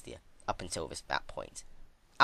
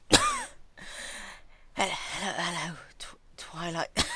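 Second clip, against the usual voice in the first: weak, broken whisper; 10 semitones higher, much slower than usual. A narrator's reading. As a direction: barely get the words out, exhausted. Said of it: "cough out with a very weak voice".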